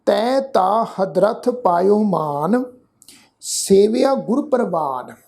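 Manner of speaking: slow, measured chanting of the verse; scripture recitation. Shown as a demonstration. Teacher reciting the verse for the congregation, slow and measured. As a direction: lay each word out slowly and reverently.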